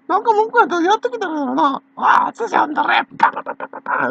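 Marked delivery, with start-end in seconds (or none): 2.0-4.1 mock old man's rant. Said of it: "何それ、パパパパパって".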